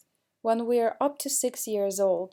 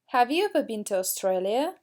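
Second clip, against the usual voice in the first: teacher modelling rising intonation for students; rising question tune. Shown as a demonstration. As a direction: voice lifts at the end of "Australia?". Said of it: "we need to raise our intonation".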